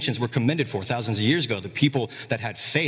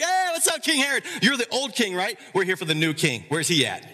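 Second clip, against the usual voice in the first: very high, breezy greeting; casual magi; 7 semitones higher than usual. Retold or imitated. Magi greeting King Herod, breezy and high. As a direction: toss it off casually, pitched way up. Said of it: "They're like".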